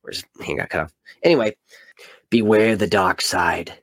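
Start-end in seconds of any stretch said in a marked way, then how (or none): 2.3-3.7 ominous trailer voice. Shown as a demonstration. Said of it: "I have to read it like this".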